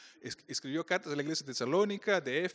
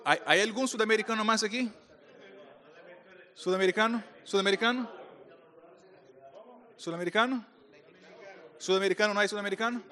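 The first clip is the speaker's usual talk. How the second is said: calling out; 3 semitones higher than usual. Real, not acted. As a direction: call out to the crowd to find anyone. Calling out to find South Americans.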